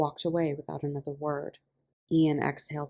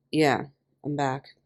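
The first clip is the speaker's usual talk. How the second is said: said simply; slower than usual. A narrator's reading. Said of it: "Mickey said simply".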